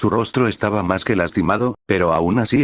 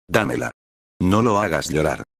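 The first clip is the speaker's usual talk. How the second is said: lightly voiced toddler insisting; little girl pleading. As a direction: beg again like a small child. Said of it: "me decía mientras intentaba trepar".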